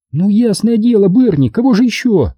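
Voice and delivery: high-pitched impatient character voice; impatient woman. Acted. Woman confirming which Арчи was taken, high and impatient. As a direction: answer high, as if it were obvious. Obvious answer to slow friend.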